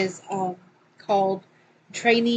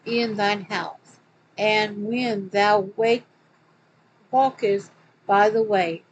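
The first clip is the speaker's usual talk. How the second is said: slow, solemn Bible reading; scripture reading; 4 dB louder than usual. Acted. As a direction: read it out like a preacher. Reads scripture quote aloud.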